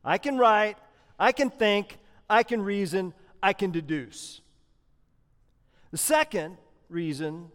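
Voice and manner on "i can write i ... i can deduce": lightly voiced shrewd insistence, each I can pressed; shrewd Paul. Paul proving himself to the Galatians, mild shrewd insistence. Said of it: "Paul shrewdly says".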